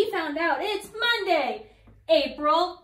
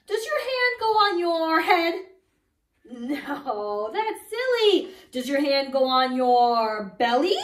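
mock question; 5 dB louder than usual. Teasing silly wrong answers.

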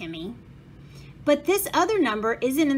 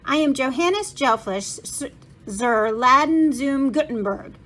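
put-on German accent; 3 semitones higher, 5 dB louder than usual. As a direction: announce yourself like an old German craftsman. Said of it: "said a man with a thick German accent".

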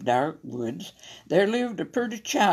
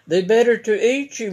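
cried; 6 semitones higher, 7 dB louder than usual. A narrator's reading. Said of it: "cried the wolf".

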